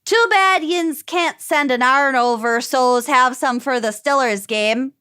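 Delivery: a light Pittsburgh accent, "arn" and "Stillers"; Pittsburgh dialect. Shown as a demonstration. Host giving co-hosts a vocab example, Pittsburgh accent. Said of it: "So, for example".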